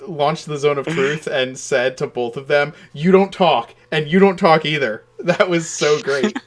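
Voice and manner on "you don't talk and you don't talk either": stern. Retold or imitated. Luna silences both with Zone of Truth.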